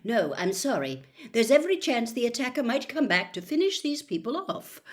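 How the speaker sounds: lightly voiced stern school nurse. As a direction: shut the door on them, clipped and quick. Pomfrey voiced through door.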